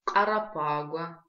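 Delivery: «Карапагуа» медленно, с гортанным начальным «к»; растяни «Карапагуа», чётко начав с гортанного «к»; показ произношения. Shown as a demonstration. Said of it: "Легче ему так запомнить". (медленное, раздельное «Карапагуа»)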